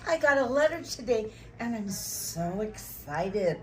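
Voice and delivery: acted excitement, stretched out on "so excited". Drama student taking a turn at the emotion exercise, excited. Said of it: "your emotion is excited".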